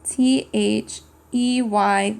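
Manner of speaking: slow letter by letter "A N D"; slow spelled letters; spelling aloud. Shown as a demonstration. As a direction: spell each letter slowly for kids. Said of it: "how to spell it".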